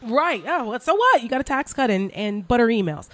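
high-pitched, jokey so-what; mock dismissive. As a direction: parody a voter waving it all away. Mocking excuses of Trump supporters.

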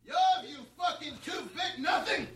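mock furious rant, half laughing; meaner rant. Comedian ordered to redo it meaner, mock furious rant. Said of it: "Can you do it again, but meaner?".

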